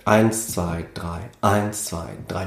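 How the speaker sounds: waltz-time count, each bar starting on "eins"; three-four count. Shown as a demonstration. Musician demonstrates halved six-eight, three-beat count. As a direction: count "eins, zwei, drei" in even threes. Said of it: "dann hat man einen Dreivierteltakt".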